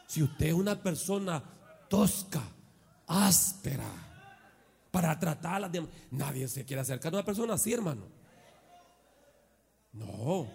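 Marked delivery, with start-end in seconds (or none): none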